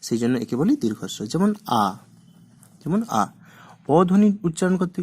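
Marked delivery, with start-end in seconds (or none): 1.8-1.8 "আ" held as a long vowel. Shown as a demonstration. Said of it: "দীর্ঘস্বরে বেশি সময় লাগে". 3.2-3.2 "আ" held as a long vowel. Shown as a demonstration. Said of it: "দীর্ঘস্বরে বেশি সময় লাগে".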